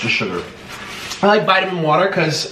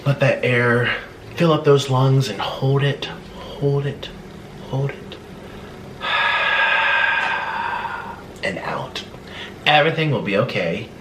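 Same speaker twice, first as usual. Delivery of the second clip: guided breathing; 2 semitones lower than usual. Acted. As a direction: talk them calmly through each breath. Leads breathing exercise.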